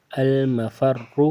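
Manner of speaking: المفر very slow, ra held thick at the end; slow heavy ra. Shown as a demonstration. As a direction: stretch المفر and hold the heavy ra. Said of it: "موٹا پڑھنا ہے". (المفر آہستہ، را موٹا کھینچ کر)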